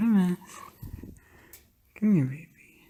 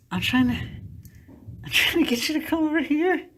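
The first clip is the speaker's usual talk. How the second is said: coaxing pet talk; 5 semitones higher than usual. Real, not acted. Coaxing the cat back.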